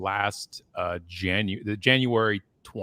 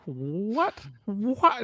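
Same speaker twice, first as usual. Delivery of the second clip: mock disbelief; 12 semitones higher than usual. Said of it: "and I'm like".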